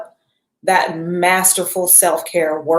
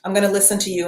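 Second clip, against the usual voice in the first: gentle promise to body; 5 dB quieter, faster than usual. Retold or imitated. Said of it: "You gotta say".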